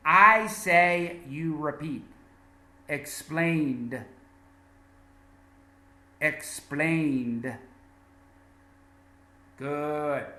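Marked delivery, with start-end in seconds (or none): 2.9-4.0 "Explained" ending in a voiced D. Shown as a demonstration. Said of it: "we pronounce this E D as a D". 6.2-7.5 "Explained" ending in a voiced D. Shown as a demonstration. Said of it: "we pronounce this E D as a D".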